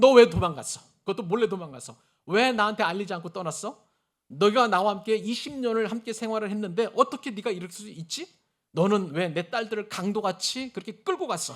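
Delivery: loud, rapid-fire, angry, accusing delivery.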